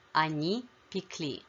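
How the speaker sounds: пекли with the last syllable stressed, пекЛИ; stress on ending. Shown as a demonstration. Teacher models the plural past of печь, stress on ending. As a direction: land on the final ЛИ in пекли. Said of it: "the stress shifts to the ending".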